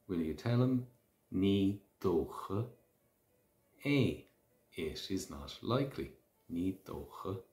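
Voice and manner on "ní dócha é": slow repeat. Shown as a demonstration. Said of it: "if you're answering a question".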